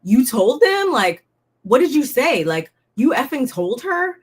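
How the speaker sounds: retold cast member lightly acting out a heated accusation; accusing. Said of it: "Rebecca turns to Aaron and is like".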